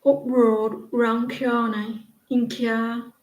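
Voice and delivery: slowing into an imitated Yorkshire accent; lightly put-on Yorkshire dialect. Shown as a demonstration. Repeating the Yorkshire sample for viewers, Yorkshire accent. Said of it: "You don't like Yorkshire?".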